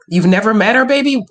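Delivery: loud and rising in disbelief; surprised. Real, not acted. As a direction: ask it in shock, loud. Shocked by caller's story.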